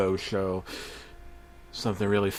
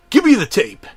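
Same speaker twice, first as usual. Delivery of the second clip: loud, higher shout in another voice; yelled demand; 9 semitones higher, 9 dB louder than usual. Acted. Fat boss yelling at the narrator for the tape. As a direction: bark it as the raging boss. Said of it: "the fat man yelled".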